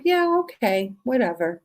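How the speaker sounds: mock cranky whatever; sulky dismissal. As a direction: shrug it off like a sulking teen. I'm like.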